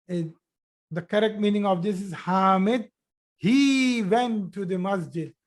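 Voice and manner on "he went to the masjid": teacher stressing "he". Shown as a demonstration. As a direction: hit the word he. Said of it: "this he is creating a big difference".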